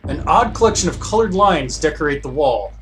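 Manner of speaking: measured read-aloud of game text; story narration. Acted. Player reads the guard scene aloud, narrating.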